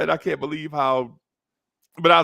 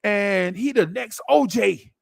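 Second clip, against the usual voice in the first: put-on high, eager hype for the young boy; neighbor hyping a rookie; 8 semitones higher than usual. Neighbor hyping Walter Payton to the kid, high and eager. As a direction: sell the rookie like a hidden gem. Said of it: "He's like".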